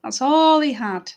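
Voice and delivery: slow, emphatic story narration; unhurried tale for children; storytelling. Acted. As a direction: linger on the key words.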